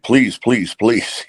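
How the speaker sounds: retold pleading. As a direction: report a plea with a light touch of begging. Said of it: "they came back and pleaded".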